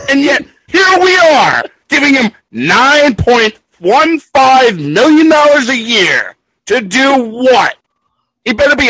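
heated, rising fury about the contract; furious rant. Real, not acted. Hockey fan raging to co-hosts about a bad contract, furious. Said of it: "He, he is super fucking angry".

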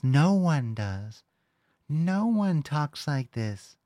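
slow, light parody of the drawl; mock affected voice. Shown as a demonstration. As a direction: drag it out to mock the talker.

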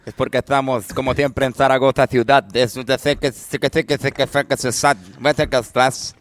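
parodia de rap con acento zaragozano; rapero de Zaragoza. Acted. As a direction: rapea con zetas españolas exageradas, atropellando sílabas. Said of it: "el rapero de Zaragoza, por favor". (rapero zaragozano de broma)

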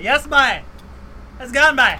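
loud, high Newfoundland goodbye; messing with a Newfoundlander, loud Newfie farewell; Newfie accent. Retold or imitated. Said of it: "mess with them, but be like".

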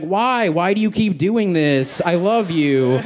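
high, hammed-up lover's protest; lightly overacted heartbreak; mock-anguished plea. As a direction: plead like a jilted cartoon hero.

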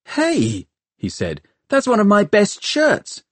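high, affronted objection; indignant protest. A narrator's reading. Tom objects to the use of his best shirt, indignant. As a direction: protest indignantly, pitched well up.

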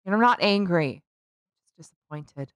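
disappointed parent. Retold or imitated. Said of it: "as your parents used to say".

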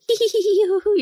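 high, giddy hee hee; two new hires giddy on their first studio day, giggling; giddy giggles. Retold or imitated. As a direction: giggle like kids let loose.

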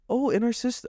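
high, sing-song mock of an unhelpful agent; prissy high voice, mimicking her. Mimicking the unhelpful phone agent in a high, prissy voice. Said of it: "she says".

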